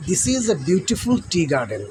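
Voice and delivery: slow, word by word, each word set apart; slow dictation. Shown as a demonstration. Teacher reads the answer slowly to the class. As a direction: read it out slowly so pupils can copy. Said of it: "সেন্টেন্সটি এরকম হয়".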